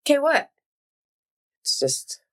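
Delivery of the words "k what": "K what?" pitched way up in disbelief; baffled high "K what?"; mock indignant. Friend mocking a one-letter text reply, incredulous.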